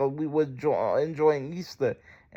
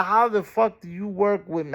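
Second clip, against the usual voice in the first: retold outrage; 5 semitones higher than usual. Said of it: "I didn't say it like that".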